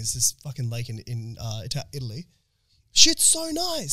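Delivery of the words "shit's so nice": much higher, slow, drawn-out gush; exaggerated awe. Swooning to the boys about the lake, higher and slow. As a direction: swoon over it like it's paradise. Gushing over Lake Como video.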